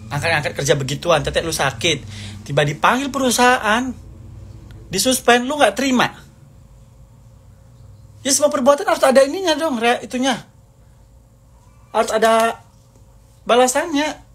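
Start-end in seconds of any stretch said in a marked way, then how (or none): 2.5-14.2 high, raised scolding voice; heated rant. Real, not acted. Ranting at the former friend, high and heated. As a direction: scold her, pitch climbing with anger.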